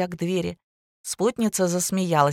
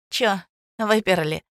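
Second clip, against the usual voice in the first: ringing voice; 3 semitones higher than usual. A narrator's reading. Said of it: "звонкий голосок".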